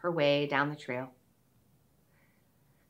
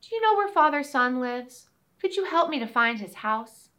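put-on little girl voice; 5 semitones higher than usual. Girl asks cobbler.

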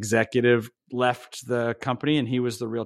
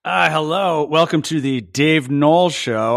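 a hint of a bright host opening the show; mock talk show host; 2 semitones higher than usual. Guest turned host opens the show, lightly hammed. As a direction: play the host welcoming listeners, lightly. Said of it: "switch the mics right now".

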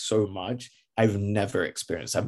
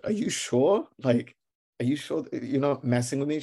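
higher, rising questions; disbelieving; 4 semitones higher than usual. Acted. Traveller asking agent if it's a trick, disbelieving. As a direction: ask it in mock disbelief.

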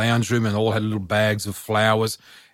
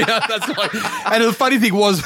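laughing; 10 semitones higher than usual. Real, not acted. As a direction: let the giggle carry it. Laugh heard on these lines.

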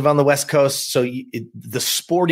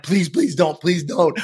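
quick, repeated mock pleading; lightly acted begging, words tumbling out; 2 semitones higher, slower than usual. Boy stopping mom going inside, acted begging. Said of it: "I'm begging her".

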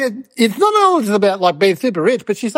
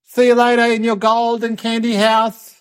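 slow teasing farewell; 3 semitones higher, slower than usual. Retold or imitated. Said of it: "We said".

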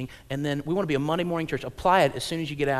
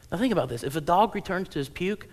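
usual speaking voice

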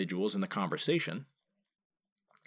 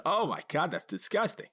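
mock disgust; 7 semitones higher than usual. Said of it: "and I said".

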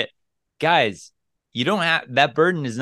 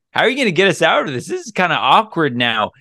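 quick, higher, playful challenge; playful teasing; 5 semitones higher, 3 dB louder, faster than usual. Retold or imitated. Man teasing his date about the awkward silence, playful and quick. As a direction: toss the silence back at her with a grin. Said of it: "I say it just like that".

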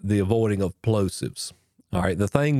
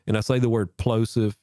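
plosive spoken straight into the mic so the p pops; popping into mic. Shown as a demonstration. Teacher showing the mic pop from speaking head-on. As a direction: let the p in plosive burst into the mic. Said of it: "did you hear that?".

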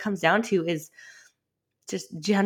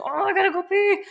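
urgent squeak; 11 semitones higher than usual. Retold or imitated. Mom needing bathroom mid-nap.

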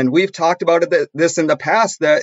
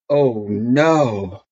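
low, drawn-out "oh no"; retold moment of dismay; sinking dread; 5 semitones lower than usual. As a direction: let the realisation sink in, pitched down. Dreading realisation in retold story.

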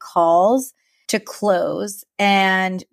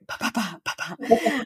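soft staccato pa-pa-pa; playful "pa-pa" noises; 2 semitones higher, 6 dB quieter than usual. Shown as a demonstration. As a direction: pop out quiet little syllables. Imitates own rattling on, playfully.

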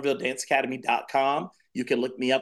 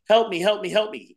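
high, pleading little bird cry; crying baby bird; 6 semitones higher than usual. Acted. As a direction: beg like a small bird stuck in the snow. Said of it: "the baby bird keeps crying".

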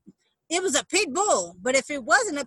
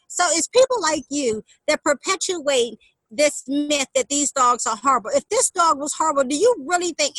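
retold riot act; 4 dB louder than usual. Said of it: "I gave that woman the riot act".

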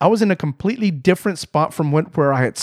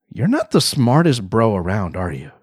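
low, dry put-down, dropping at the end; mock condescension; 5 semitones lower than usual. Wife silently judging her husband, mock condescension. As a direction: voice a mildly pitying tease, sinking lower.

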